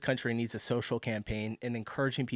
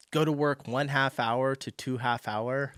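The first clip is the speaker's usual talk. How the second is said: mock Italian accent; 2 semitones higher, 4 dB louder, slower than usual. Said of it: "I wanna do the accent so bad".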